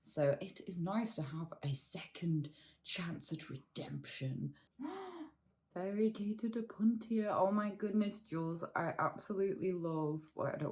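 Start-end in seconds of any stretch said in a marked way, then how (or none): 4.8-5.3 gasp of delight. Real, not acted. Spots a plant in the box.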